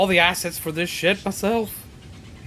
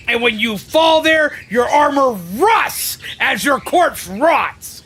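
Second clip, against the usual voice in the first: angry shout; 3 semitones higher, slower than usual. Real, not acted. Streamer cursing the commander, angry shout. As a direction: spit out the curse slowly.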